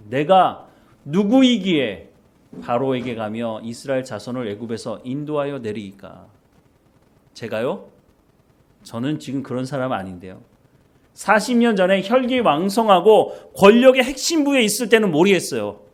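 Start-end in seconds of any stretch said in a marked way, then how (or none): 0.1-10.4 Moses protesting. Retold or imitated. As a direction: stretch 누구이기에 out, full of doubt. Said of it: "이런 말을 사실은 할 수밖에 없는 거죠".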